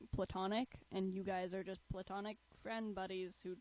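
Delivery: stiff, mechanical robot voice. Pretend. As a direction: say it like a flat robot. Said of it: "that's my robot impression".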